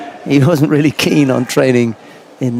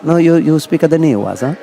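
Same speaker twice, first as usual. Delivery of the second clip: put-on Italian accent; 3 semitones higher than usual. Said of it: "a nice Italian accent there".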